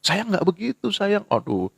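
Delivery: soft, gentle scolding like a tender mother; loving mother. Retold or imitated. Mother gently correcting her child, soft and loving. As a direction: coax the child softly. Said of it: "dalam kasih ibu".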